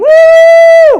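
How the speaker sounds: very high, loud head-voice cheer. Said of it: "That voice is called head voice".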